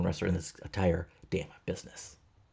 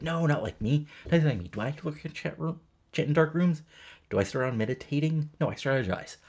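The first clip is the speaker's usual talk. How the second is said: higher, defensive manager protest; insistent manager; 7 semitones higher than usual. Retold or imitated. Heyman denying he's like Sharp, higher mock-indignant protest. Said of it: "And he's like".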